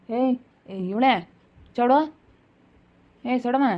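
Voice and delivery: calling out. Acted. Calling someone from afar.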